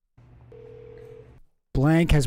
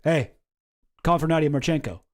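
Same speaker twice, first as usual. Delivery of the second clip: mock blunt cold-caller, straight to the point; imitating a curt caller with no small talk. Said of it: "He's just like".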